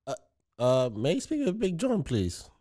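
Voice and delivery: badly faked Indian accent; polite caller with an attempted Indian accent. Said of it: "went straight to the Indian accent".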